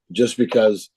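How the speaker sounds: losing voice, hoarse from umpiring; hoarse worn-out voice. Real, not acted. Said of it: "excuse my voice, 'cause I was umping a game on Saturday, so I'm losing my voice".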